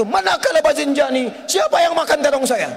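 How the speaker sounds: retold shout. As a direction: cry out as if your food is gone. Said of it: "Dia teriak pada saat itu". (teriakan istri yang agak dibuat-buat)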